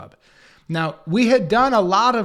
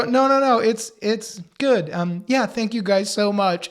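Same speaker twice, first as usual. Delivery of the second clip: imitating the anchor; 5 semitones higher, 3 dB louder than usual. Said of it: "then she would go".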